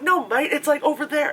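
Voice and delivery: high, loud dismissive taunt; mock jeering kids. Teenage kids misdirecting the lady, loud mockery. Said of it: "three of them were being assholes".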